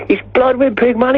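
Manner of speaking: exaggerated, very high Welsh voice; Welsh accent. Welsh local explains the band's name, Welsh accent. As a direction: impersonate a Welshman way up in pitch. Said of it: "when we play in Wales".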